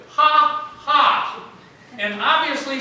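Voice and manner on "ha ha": loud mock "Ha, ha"; mock laugh. Abraham scoffing at God's news with a loud mock laugh. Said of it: "what does he do".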